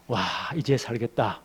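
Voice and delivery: slow, drawn-out relief; relieved sigh of words. Acted. Jonah shaded by the vine, slow relieved sigh. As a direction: let the relief out slowly.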